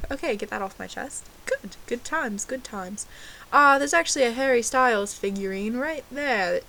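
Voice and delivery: put-on amateur British accent, lively and chatty; fake British accent.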